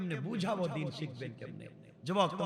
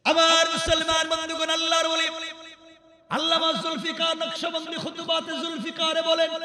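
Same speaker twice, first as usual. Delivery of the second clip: high, loud chanted sermon; slow, ringing high preacher's chant; full-force preaching; 12 semitones higher, 11 dB louder than usual. Acted. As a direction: hold one high note and belt out the narration.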